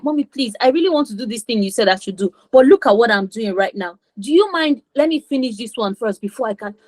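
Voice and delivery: calm, reasoned plea to a parent; polite explaining to mom. Shown as a demonstration. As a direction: explain gently and ask mom's permission. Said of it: "explain to them".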